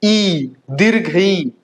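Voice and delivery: ई held as a long "ee"; German ie as one long ई; long IE sound. Shown as a demonstration. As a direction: stretch ई out in दीर्घ ई. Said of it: "एक साथ क्या बोलेंगे".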